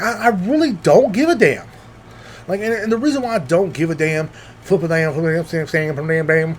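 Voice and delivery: half-joking rapper voice; impression of a rapper. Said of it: "that's my impression of a rapper".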